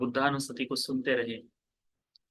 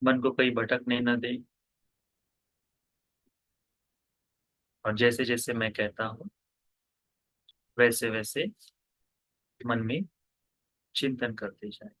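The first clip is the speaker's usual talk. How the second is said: measured meditation guidance with long pauses; guided meditation. Real, not acted. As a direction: guide listeners into stillness, pausing after each instruction. (ध्यान कराते हुए, ठहर-ठहर कर निर्देश)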